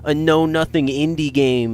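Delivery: high, loud outraged rant; angry commenter. Pretend. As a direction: yell like an enraged fan. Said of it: "a hundred comments".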